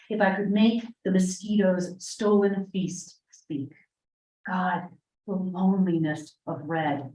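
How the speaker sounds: measured, hushed poem recital; poetry reading. Acted. Reads a poem aloud.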